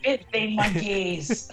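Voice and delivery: high, drawn-out villain voice; Frieza. Pretend. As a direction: put on a high villain voice and stretch the words. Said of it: "I know your Frieza voice".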